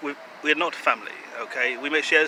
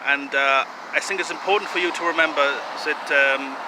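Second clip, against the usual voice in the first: mock German accent, earnest self-promotion; wobbly, hammed-up German accent. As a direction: put on a slightly Eastern European German accent. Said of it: "I'm having a little trouble with this accent".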